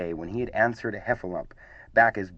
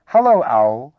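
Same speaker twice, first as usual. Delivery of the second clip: loud, bouncy, higher hello; excited greeting; 4 semitones higher, 11 dB louder, slower than usual. A narrator's reading. Excited youngster greets the next party guest, excitedly. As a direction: burst out with an eager greeting.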